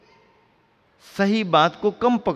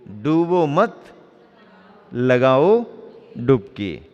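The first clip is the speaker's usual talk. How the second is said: मत rises and stops, then लगाओ, then a falling डुबकी; comma after मत; 2 semitones lower, 4 dB louder, slower than usual. Shown as a demonstration. Preacher demonstrating the comma in a title, pause after मत. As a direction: break firmly after डूबो मत, spacing out लगाओ डुबकी. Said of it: "डूबो मत के यहाँ लगाओगे कामा".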